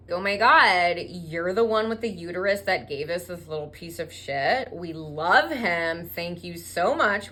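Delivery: loud burst of fawning delight; over-the-top adoring fan; mock gushing. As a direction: gush with hammed-up admiration. Rabbis gush at the mother.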